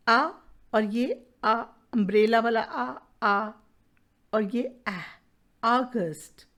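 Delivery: isolated आ sounds, then AUGUST said whole; sound demonstration. Shown as a demonstration. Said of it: "ये sound ए और यू की". (August के AU की आ आवाज़ अलग करके दिखाएं)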